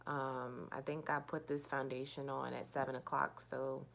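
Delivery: half asleep and mumbling; sleepy. Real, not acted. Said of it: "I'm half asleep".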